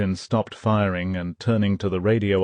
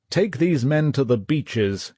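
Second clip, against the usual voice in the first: mild mock roar; 6 semitones higher than usual. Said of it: "he roared".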